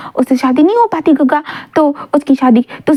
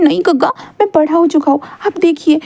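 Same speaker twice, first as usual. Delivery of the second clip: put-on higher, whiny hurt boyfriend plea; pleading Wing; 4 semitones higher than usual. Boy begging his boyfriend to take it back, rising whine. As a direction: beg him not to deny it, voice climbing up.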